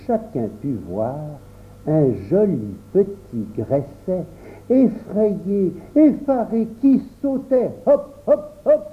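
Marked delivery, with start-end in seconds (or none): 4.7-8.8 short rising steps, higher and higher; bouncy narration. A narrator's reading. Narrator shows the tiny creature leaping away, bouncy. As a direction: hop upward word by word. Narrator mimics the hopping frightened cricket.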